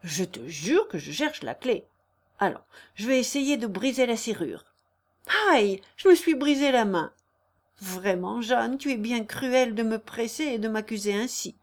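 lightly acted protesting schemer; mildly aggrieved suitor's voice; feigning suitor. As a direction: play the injured innocent. Narrator plays scheming Léon.

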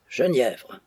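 a breathy whisper of the word. A narrator's reading. Maggie miming her grandmother's drink, whispered. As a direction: whisper it like a secret.

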